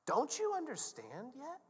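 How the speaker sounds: high, slow, strained question; drawn-out exasperated appeal; incredulous Jesus. Acted. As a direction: plead in disbelief, without raising the volume. Jesus pleads with the disciples.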